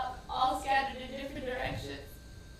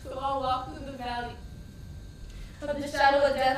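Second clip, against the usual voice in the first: reciting scripture; 2 semitones lower, 3 dB louder than usual. Retold or imitated. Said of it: "I started to recite scriptures".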